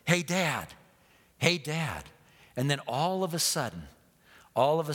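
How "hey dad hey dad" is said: raised call for dad, still short of a shout; a little louder. Retold or imitated. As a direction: call out a bit more boldly. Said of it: "start getting a little bit louder".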